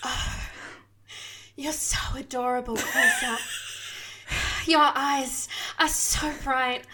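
soft, slow breathy voice. Acted. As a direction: breathe the words out slowly. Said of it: "speaks in a breathy voice".

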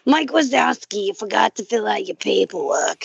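raspy smoker lady, Monsters Inc clerk; a hint of the paperwork lady; chain-smoking lady voice. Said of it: "chain-smoking tennis player".

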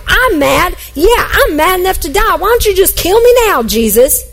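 imitating a sulking prophet's mad cry; angry outburst. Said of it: "he's like".

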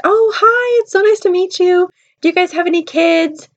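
high, chirpy welcoming voice; mock gushing greeter. Church woman greeting a young pair, mock gushing greeter.

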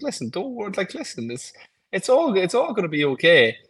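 soothing self-talk; reassuring inner voice. Retold or imitated. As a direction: coax yourself gently into taking it easy.

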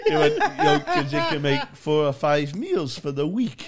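cry-laughing in disbelief; laughing hard. Real, not acted. Breaking up over the poet.

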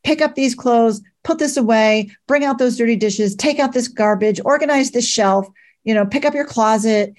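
imitating a parent calling out orders; mock shouted orders. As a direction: fire off chores one after another, only half shouting. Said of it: "And I would shout out".

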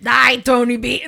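attempted Scottish accent. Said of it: "Now I'm upset about my Scottish accent".

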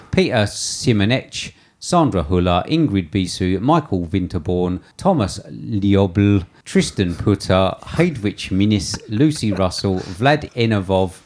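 slow, careful names in a slipped-in Swedish accent; accidental Swedish accent on each name; put-on Swedish accent. Real, not acted. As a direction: read out foreign names with a mock-Swedish lilt. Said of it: "Why are you doing the accent?".

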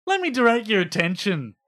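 accidental hint of Scottish accent; formal pleading in a light Scottish accent. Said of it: "I'm doing a Scottish accent".

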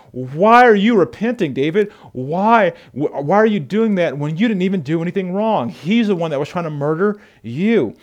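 hammed-up outraged followers; mock furious soldiers questioning David; furious men. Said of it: "they were furious in the text".

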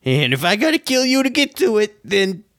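threatening, rising to a high shout; gruff Jim Bob koala. Acted. GM voicing Jim Bob threatening the party, shrill threat. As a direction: snarl it like a cornered bandit. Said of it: "and Jim Bob says".

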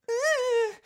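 dinosaur squeak. Pretend. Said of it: "Harry Potter as a dinosaur".

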